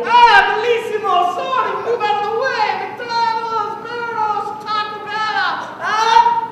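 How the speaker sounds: high, put-on fake Italian gibberish; mock Italian. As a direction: rattle off brand names like Italian, high pitched. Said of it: "more Italian to her".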